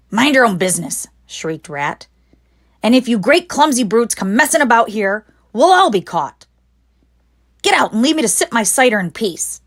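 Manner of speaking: a touch of a peevish rat; snappy rat. Acted. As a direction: tell them off from the shelf.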